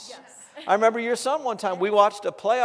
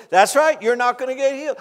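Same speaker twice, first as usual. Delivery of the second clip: loud, raised-pitch taunt; the devil; 5 semitones higher, 7 dB louder than usual. Retold or imitated. Preacher voices the devil denying the man healing, loud taunting. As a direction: come back hard with a higher, louder jeer. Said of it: "and this voice".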